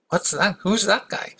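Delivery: high, eager questions; curious young prince. Retold or imitated. Prince asking the guard about the monk, high eager questions. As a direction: ask with bright curiosity.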